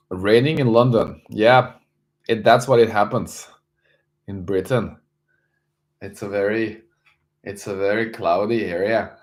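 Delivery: bad British accent. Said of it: "bad accent".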